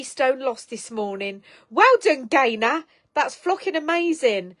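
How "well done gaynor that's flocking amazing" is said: loud, high cheer for a viewer; a thrilled well done; delighted praise. Real, not acted. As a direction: celebrate her news out loud. Congratulating weight loss.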